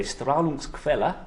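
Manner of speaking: amateur German accent on Strahlungsquelle; terrible German accent. Shown as a demonstration. Lecturer naming radiation source, terrible German accent. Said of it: "that's my terrible German accent".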